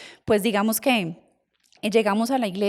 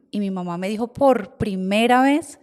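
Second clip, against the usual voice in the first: ordinary talk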